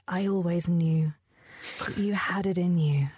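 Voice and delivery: hushed and intense, then breathy; intense whisper. Acted. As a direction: whisper it while staring him down. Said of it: "stare into his eyes and say".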